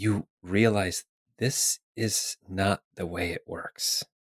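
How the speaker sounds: voice dropped right down. Narrating a scene and voicing a woman speaking to the listener: really low voice. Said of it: "her voice gets really low she says".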